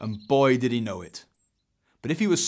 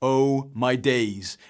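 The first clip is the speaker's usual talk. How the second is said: drawn-out exclamation of dismay; slow, understated cry of distress; 3 dB louder, much slower than usual. Acted. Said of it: "Eric cried in distress".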